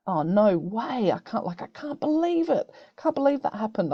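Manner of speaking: shocked. Shown as a demonstration. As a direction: act stunned by the news. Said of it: "I might do the shocked one".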